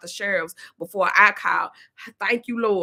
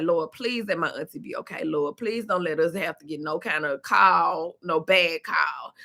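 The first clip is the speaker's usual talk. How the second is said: lower, slow pleading to the Lord; 5 semitones lower than usual. Retold or imitated. Praying for her auntie in the storm, low and slow. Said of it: "I'm like".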